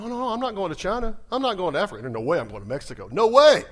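stubborn protest ending in a loud no way; mock refusal. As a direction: play the reluctant churchgoer digging in. Mock listener refusing mission.

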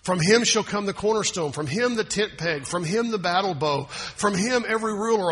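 preacher reading the prophecy aloud; scripture reading. Acted. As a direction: read it rising toward a proclamation.

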